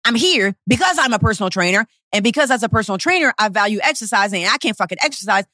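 retold indignant rant, mildly heated; touch of anger, pressing on without let-up; a little mad. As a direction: argue back as if exasperated. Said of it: "I was a little bit mad".

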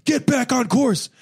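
high, drawn-out mock shout; imitated official's yell. Official orders swimmer back on course, mock yelling. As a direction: holler it like a race official. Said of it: "he just kept yelling at me".

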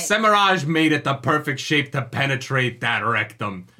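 slow mock-heroic declamation; hammed-up dramatic reading; Rand's dramatic speech. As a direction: finish the absurd threat with drawn-out relish. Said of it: "dramatic reading of Rand's speech".

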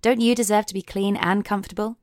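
measured spoof sponsor read; straight-faced commercial voiceover; podcast ad read. Acted. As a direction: sell it like an earnest advert.

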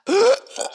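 sudden high gasp, caught off guard; a quick startled intake of breath; sharp gasp. Real, not acted. Sudden gasp mid-monologue.

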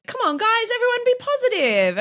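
high, bouncy pep-talk voice; big cheery guard voice. Retold or imitated. Imitating Andrew rallying the group in a high, chirpy voice. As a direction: squeak it out like an eager cheerleader. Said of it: "security guard of a man being like".

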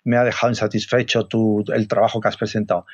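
stern, matter-of-fact email reading; grave boss tone, lightly done; very serious. Shown as a demonstration. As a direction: read the reproach very seriously. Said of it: "te he leído así muy serio".

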